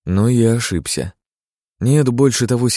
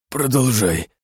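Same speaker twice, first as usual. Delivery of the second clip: a hoarse, higher, worn-out «Продолжай»; 5 semitones higher, slower than usual. A narrator's reading. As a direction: rasp it out as a beaten man. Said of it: "хриплым голосом произнёс он". (хриплым голосом)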